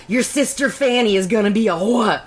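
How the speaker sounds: playful mock hillbilly-Scottish accent; hillbilly read as Scottish brogue. Shown as a demonstration. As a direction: pronounce it in a loose Scottish-Southern brogue. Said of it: "what I read it in is like this".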